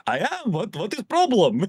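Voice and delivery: soft, put-on Ukrainian accent; mock Ukrainian accent. Zelensky answering the scolding, mock Ukrainian accent. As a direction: imitate a baffled Ukrainian accent. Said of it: "in his Ukrainian accent".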